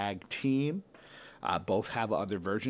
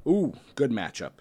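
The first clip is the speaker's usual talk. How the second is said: surprised; 3 semitones higher, 5 dB louder than usual. Real, not acted. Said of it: "I don't know why I'm always surprised".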